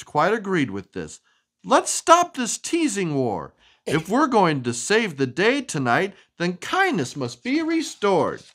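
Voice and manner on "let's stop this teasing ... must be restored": earnest resolve. Acted. Witches resolve.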